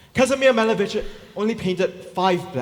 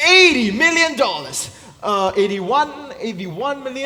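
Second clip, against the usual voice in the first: fish market auctioneer; 5 semitones higher, 6 dB louder than usual. Acted. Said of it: "auctioneer taking bids".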